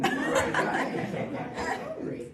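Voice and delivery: high, stretched-out laugh on the words. Real, not acted. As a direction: dissolve into laughter on the punchline. Punchline, laughing.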